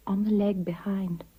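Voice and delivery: hushed, embarrassed whisper; shamefaced whisper in the confessional. Retold or imitated. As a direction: admit it under your breath.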